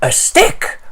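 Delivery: high unvoiced yap of a dog; a hint of a barking dog; lightly voiced excited dog. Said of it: "barks the dog".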